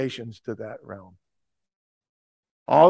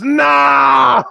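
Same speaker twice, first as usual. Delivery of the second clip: a sharp scream, much higher and louder; 10 semitones higher, 10 dB louder than usual. Retold or imitated. Heckler screams at the preacher in front of the crowd, piercing shout. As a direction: explode with a single furious no. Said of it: "He's screaming at me".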